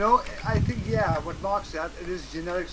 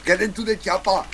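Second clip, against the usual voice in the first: Arnold Schwarzenegger; 6 dB louder than usual. Retold or imitated. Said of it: "sometimes they sound like, uh, like, uh, Arnold Schwarzenegger".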